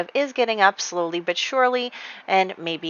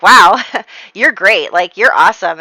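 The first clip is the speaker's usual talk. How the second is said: smitten gushing; 8 dB louder than usual. Retold or imitated.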